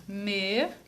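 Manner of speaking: "Menina" as me, ni, na with long pauses, softly; syllable by syllable. Shown as a demonstration. Teacher helping pupils think, menina said syllable by syllable. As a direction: split "Menina" into three soft, isolated syllables. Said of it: "Olha como ficou fácil".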